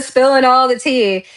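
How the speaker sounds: real amused laugh while repeating. Real, not acted. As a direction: laugh out the words in delight.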